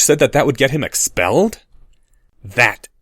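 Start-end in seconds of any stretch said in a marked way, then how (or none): 2.4-2.9 hissed. Acted. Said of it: "Draco hissed".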